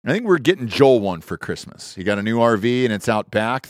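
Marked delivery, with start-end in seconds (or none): none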